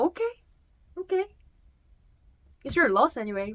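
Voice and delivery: dismissive foreigner. Retold or imitated. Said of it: "열받는 그 외국인 리액션".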